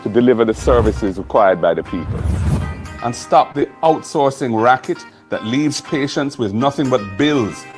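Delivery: loud, rousing campaign address; rally the crowd with fire; rally speech. Acted. Campaign speech over music.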